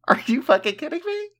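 high laughing outburst, fast; laughing disbelief. Real, not acted.

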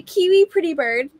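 parrot voice. Retold or imitated. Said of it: "He would say".

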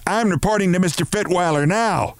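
high, indignant cry at moderate volume; angry shout. A narrator's reading. Woman threatening colleague in his office, contained shout. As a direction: announce it in high-pitched outrage. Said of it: "she shouted".

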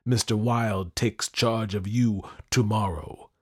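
loud, high threat, easing gradually; crying out. A narrator's reading. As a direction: dismiss them with menacing triumph. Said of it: "I cried to Louis".

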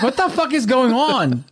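high, slow put-on voice; podcast voice. Mimicking his public podcast voice for the hosts, high and slow. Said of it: "That's the podcast voice only".

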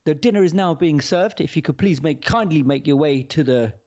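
slow, measured dinner announcement; a hint of the formal wedding announcer; mock MC. Friend parodying MCs calling guests to dinner, mock announcer voice. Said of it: "what do they all say?".

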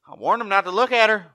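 hammed-up high excuse; high whiny plea. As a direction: whine it like a guilty brute. Voicing Dan's defensive plea.

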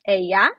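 ella said as EH-ya, Spanish style. Shown as a demonstration. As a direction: say ella clearly for a learner. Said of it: "Can you say ella?".

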